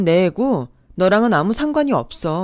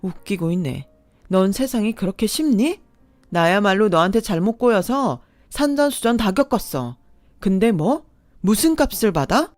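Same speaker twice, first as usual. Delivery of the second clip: heated quarrel; 3 semitones higher, 4 dB louder than usual. Acted. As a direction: hurl insults back, rising. Quarrel with ex, insults fly.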